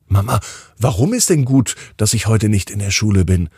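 slightly stuffy, congested voice; stuffy nose. Acted. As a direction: speak as if the nose is blocked. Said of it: "fragt Wilma noch etwas verschnupft".

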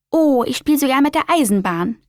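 gushing. Acted. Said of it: "schwärmt die kleine Spinne".

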